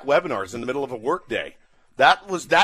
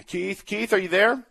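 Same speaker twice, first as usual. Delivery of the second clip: mock host calling; 5 semitones higher than usual.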